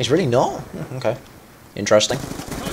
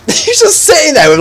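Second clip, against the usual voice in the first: high, giggly delivery; real laughing; 12 semitones higher than usual. Real, not acted. Gamer amused by an oblivious teammate, laughing. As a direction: start on a laugh and keep it pitched up. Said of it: "you know, I'm laughing".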